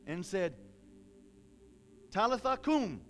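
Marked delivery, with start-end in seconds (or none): 2.1-3.0 loud, raised command. Acted. Acting Jesus telling the little girl to rise, loud command. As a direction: call it out with authority. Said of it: "he told her with a loud voice".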